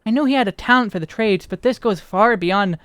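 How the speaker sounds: lightly voiced archaic, inquisitive character; measured storybook formality with a questioning lilt; formal quest character. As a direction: read it as a curious, well-spoken townsperson. Reads quest dialogue in character.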